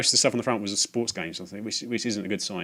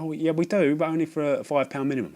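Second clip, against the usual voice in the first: put-on higher, lilting old lady; sweet old lady; 6 semitones higher than usual. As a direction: give the old lady a high gentle lilt. Voicing old lady reply.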